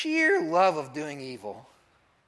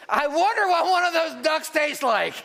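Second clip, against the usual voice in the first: mischievous wondering; 9 semitones higher, 5 dB louder than usual. Retold or imitated.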